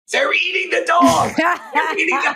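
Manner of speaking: high, loud, slow mock Trump shout; Trump shouting impression. Trump at the debate shouts about pets being eaten, as a loud high mock impression. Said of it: "I hear him go".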